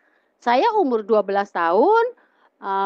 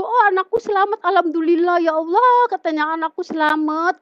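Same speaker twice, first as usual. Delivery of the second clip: higher-pitched retold cry of relief; relieved exclaiming; 7 semitones higher than usual. Mother thanking God her child is safe, relieved exclaiming.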